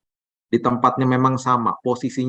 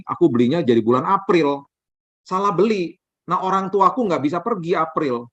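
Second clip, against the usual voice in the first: lightly voiced chatty friend, pitched up; voicing the friend; 3 semitones higher than usual. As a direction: play the excited friend on the phone, a little higher. Friend's phone call voiced.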